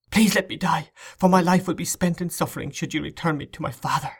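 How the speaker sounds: put-on high, pleading girl's voice; desperate pleading. A narrator's reading. Girl begs rescuer not to return her, pleading. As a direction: beg despairingly, pitched well up.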